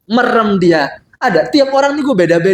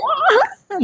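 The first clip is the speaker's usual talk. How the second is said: imitated shout; 3 dB quieter than usual. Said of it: "sampai teriak".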